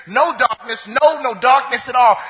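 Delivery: repeated "no" punched for emphasis; stress on no. Shown as a demonstration. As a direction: hammer the double "no". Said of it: "it's a double negative".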